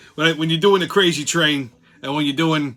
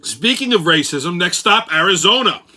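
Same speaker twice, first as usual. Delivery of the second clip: put-on old-school Brooklynese; Brooklyn accent. Crazy train host mocking the news for listeners, Brooklynese. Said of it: "go with the old Brooklynese".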